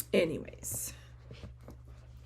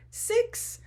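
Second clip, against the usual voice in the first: much higher astonished question; surprised; 4 dB louder than usual. Real, not acted. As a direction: react as if that's outrageous. Shocked at six kits.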